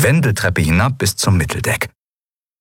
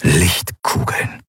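whisper; much slower than usual. Acted. Stunned whispered realization.

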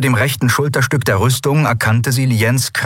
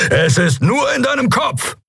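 high, encouraging call. Acted. Keru calls encouragement to Endriel, high and urgent. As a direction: shout encouragement to her. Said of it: "rief er".

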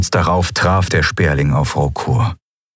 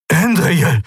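high-pitched cry of a name; exclaiming; 9 semitones higher than usual. Acted. Admiral recognising a familiar voice, exclaiming her name high. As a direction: call the name out in sudden recognition. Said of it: "rief Thelios aus".

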